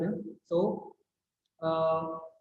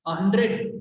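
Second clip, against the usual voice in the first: louder, stretched hundred of disbelief; disbelieving exclamation; 4 dB louder, slower than usual. Shown as a demonstration. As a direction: gasp hundred like you can't believe it. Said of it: "exclaimed all the girls". (अविश्वास से "हंड्रेड" कहना)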